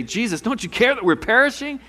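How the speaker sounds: high, frantic plea; panicked disciples. Acted. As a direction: cry out to him over the storm. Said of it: "they're freaking out".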